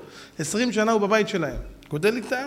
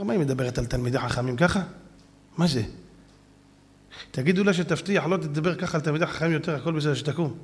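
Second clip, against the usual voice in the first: lower, soft measured ruling; a hint of a gentle elder; calm rabbi; 5 semitones lower, 4 dB quieter than usual. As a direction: speak with quiet authority.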